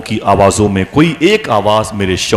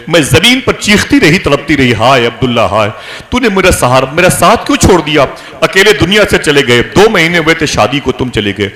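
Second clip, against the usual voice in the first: high, loud keening cry of grief; a raised, grieving lament; wailing lament; 4 semitones higher, 3 dB louder than usual. Acted. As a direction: wail it out like a widow mourning. Amina wailing over husband's death.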